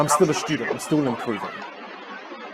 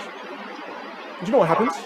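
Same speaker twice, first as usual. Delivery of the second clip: slow whispered question to hook the room; dramatic whisper; 7 semitones higher, much slower than usual. Acted. Teacher to class, building suspense in a slow whisper. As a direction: lean in and whisper it slowly.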